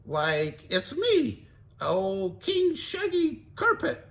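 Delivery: high, slow goofy king act; Shaggy posing. Acted. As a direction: fake royal greeting.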